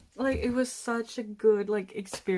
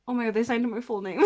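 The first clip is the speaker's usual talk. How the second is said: laughing excitedly; 5 dB louder, much faster than usual. Real, not acted. Thrilled at her signed album.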